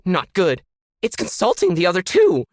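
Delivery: loud, high muffled complaining; muffled complaint. A narrator's reading. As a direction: complain through a wall. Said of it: "a muffled voice somewhere behind Ken complained".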